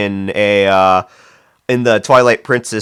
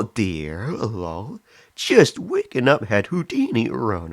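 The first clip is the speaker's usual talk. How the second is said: put-on old lady voice. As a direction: read the chat like an old lady. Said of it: "Do I sound like a frickin' old lady with this?".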